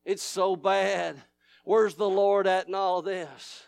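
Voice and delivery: a hint of a sly devil, hushed; devil whispering. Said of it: "The devil will whisper in your ear".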